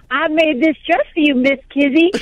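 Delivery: hint of a child's Asian-accented line reading; imitated Asian accent. Mother imitates daughter's friend rehearsing for Roots, mock Asian accent. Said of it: "like, an Asian accent".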